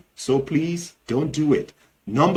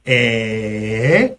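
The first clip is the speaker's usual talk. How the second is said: long low start swooping up sharply; drawn-out questioning disbelief; surprise; 5 semitones lower than usual. Shown as a demonstration. Teacher showing a reaction to news, drawn-out surprise. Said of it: "It's like a surprise, right?".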